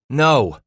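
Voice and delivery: firm loud "No"; emphatic. Acted. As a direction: say "No" flatly and firmly. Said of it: "Scratch said emphatically".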